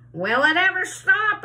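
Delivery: high, loud excited shout. A narrator's reading. Aunt Sponge shouts at the growing peach, high and loud. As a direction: shout it out in wonder. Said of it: "Aunt Sponge shouted".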